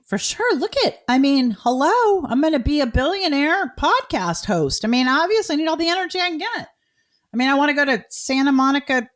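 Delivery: high, loud excited bragging; hyped up. Real, not acted. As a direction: pump yourself up like a future billionaire. Hyping herself as billionaire host.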